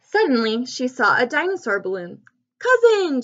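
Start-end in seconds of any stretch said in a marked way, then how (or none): 2.6-3.2 high-pitched shouted greeting; delighted storybook call; glad shout. A narrator's reading. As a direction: shout out to a long-lost cousin. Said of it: "she shouted".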